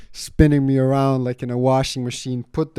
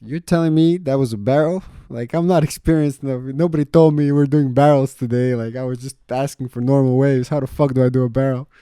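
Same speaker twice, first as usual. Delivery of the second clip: incredulous rant; 4 semitones higher, 6 dB louder than usual. Retold or imitated. Panicked complaint to instructor.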